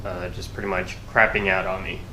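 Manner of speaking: stuffy congested nasal voice; blocked nose. Real, not acted. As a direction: talk through a head cold with a blocked nose. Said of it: "nasally, 'cause I kinda got sick".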